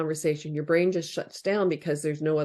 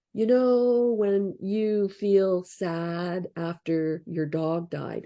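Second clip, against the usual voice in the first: mock detached; much slower than usual. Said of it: "They say, it's like".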